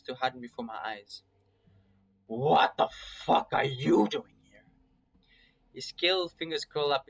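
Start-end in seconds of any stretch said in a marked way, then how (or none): 2.3-4.6 slow, louder hostile demand; angry demand. Acted. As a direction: put the question to him as a threat. Flynn confronts unexpected visitors.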